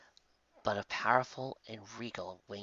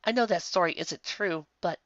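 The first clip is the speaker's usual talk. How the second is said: lightly voiced tearful pony; 8 semitones higher, 4 dB louder than usual. Twilight argues, still emotional.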